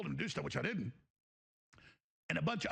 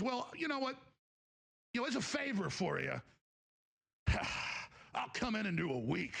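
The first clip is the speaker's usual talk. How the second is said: Patrick Bateman imitation; 3 semitones higher than usual. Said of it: "talking to me with just like, like Patrick Bateman".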